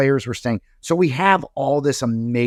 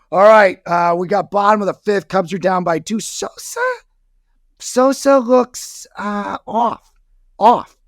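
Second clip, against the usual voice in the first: high, loud hammed-up sports announcer; mock play-by-play; 10 semitones higher, 5 dB louder than usual. Fan filming at Cubs game, hammed-up announcer voice. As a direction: call the game like a TV broadcaster. Mock ballgame broadcast on camcorder.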